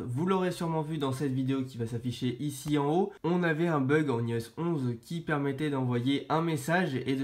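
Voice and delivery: stuffy voice with a blocked nose and sore throat. Real, not acted. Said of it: "j'ai le nez bouché et mal à la gorge".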